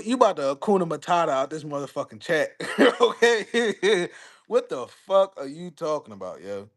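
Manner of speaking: real laughter through fast words; laughing at chat. Real, not acted. Host teasing a chat commenter, laughing. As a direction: crack up while teasing the commenter.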